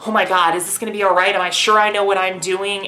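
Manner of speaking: quick, mildly anxious rush; hurried, lightly acted worry; mock worried self-doubt. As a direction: imitate nervous second-guessing in a hurry. Acting out earlier nervous self-doubt.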